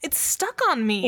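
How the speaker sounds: high panicked voice, "stuck" hit hard; alarmed, punching the word "stuck"; panicked, stress on stuck. Acted. Panicked realization.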